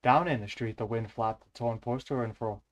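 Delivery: put-on Welsh accent slipping into Irish; Irish-tinged stab at a Welsh accent; attempted Welsh accent. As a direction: try Welsh, let it come out Irish. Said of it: "Nope, that's still Irish".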